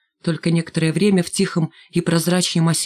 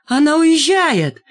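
high, loud and slow gloating cry; triumphant shout; 10 semitones higher, 5 dB louder, slower than usual. A narrator's reading. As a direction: crow it out at full voice. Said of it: "крикнул лохматый".

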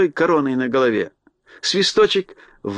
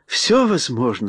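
calm; 5 semitones higher than usual. Acted. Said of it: "спокойно сказала Рамина".

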